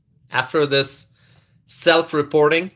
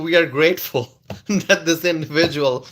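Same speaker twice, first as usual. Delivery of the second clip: reading with a laugh; half-laugh the quote out; lightly laughing read; giggling mock statement. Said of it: "from ice saying".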